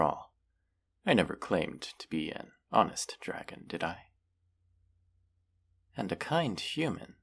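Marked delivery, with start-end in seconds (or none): 3.7-4.0 whispered, sly aside. Acted. Dragon teasing the captive human, sly whisper. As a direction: whisper it with a grin.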